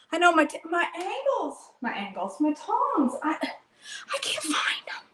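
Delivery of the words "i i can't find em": slow whispered whimper; half-crying in frustration. Real, not acted. Frustrated search, near tears.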